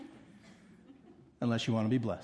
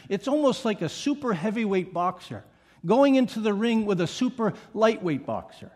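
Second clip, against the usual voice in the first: ordinary talk, nothing marked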